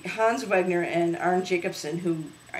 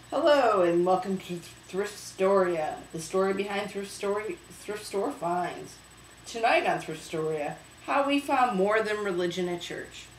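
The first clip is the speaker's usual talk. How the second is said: show host intro; 2 semitones higher than usual. Acted.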